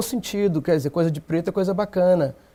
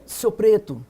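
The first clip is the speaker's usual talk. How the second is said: short, understated name-calling as an example; mock racist insult; 3 semitones higher, slower than usual. Shown as a demonstration. Activist shows panel how racists loaded the word, mock insult. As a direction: demonstrate a slur-like tone, mildly. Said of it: "uma tonalidade racista".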